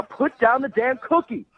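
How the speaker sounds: slow, stern command; stern order. Real, not acted. Furious customer orders the banker to drop his cookie, slow and stern. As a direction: spell it out to him slowly, fed up. Angry caller scolds the banker.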